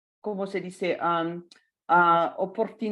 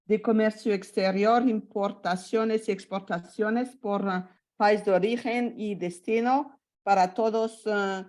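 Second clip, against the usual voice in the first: Spanish with an American accent; American English speaker's Spanish accent. Real, not acted. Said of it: "español no es muy bueno".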